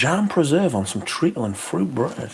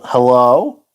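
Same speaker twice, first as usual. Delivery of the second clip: imitating a Yankee-sounding hello, rising at the end; a light mock American Yankee hello; 6 dB louder than usual. Echoing Lily's hello back to the chat in a mock Yankee accent. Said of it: "Sound like a Yankee the way you said hello".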